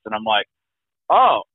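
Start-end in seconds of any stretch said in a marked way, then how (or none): 1.1-1.4 retold stunned, halting question; slow, hesitant alarm, rising at the end; fearful disbelief. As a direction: relive the dread, stretched out with gaps. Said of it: "you hear the fear in my voice".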